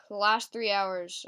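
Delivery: blocked nose, sniffly; stuffy nose. Real, not acted. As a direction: talk through a stuffed-up nose. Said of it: "Sorry if I'm stuffy".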